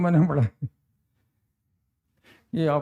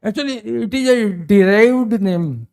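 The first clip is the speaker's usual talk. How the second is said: slow explanation; 5 dB louder, much slower than usual. Shown as a demonstration. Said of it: "slow explanation".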